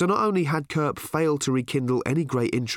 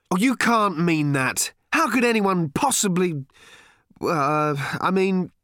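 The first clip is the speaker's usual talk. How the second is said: slow, higher, fumbling reassurance; flustered father; 8 semitones higher, 4 dB louder than usual. A narrator's reading. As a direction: stumble over comforting words.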